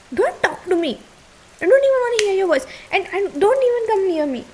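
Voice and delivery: drawn-out, angry dismissal; cold fury. Acted. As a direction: push him away word by word. Furious girlfriend shuts partner out.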